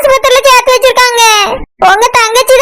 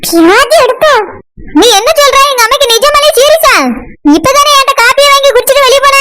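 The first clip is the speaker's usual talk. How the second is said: scolding mother. Acted. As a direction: scold like a cranky old mother. Same mother figure.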